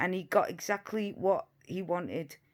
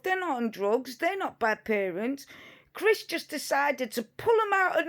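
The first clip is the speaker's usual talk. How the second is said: mock-earnest praise, pitched up at first; sarcastic defence; 3 semitones higher than usual. Vlogger mockingly defending the couple as angels, sarcastic. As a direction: plead their innocence with heavy irony.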